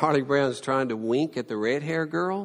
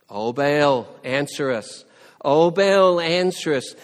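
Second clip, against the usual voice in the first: loud pleading call, louder the second time; crying out; 7 dB louder than usual. Retold or imitated. Priests crying out to Baal, loud pleading. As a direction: call out desperately to an absent god. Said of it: "They cry out".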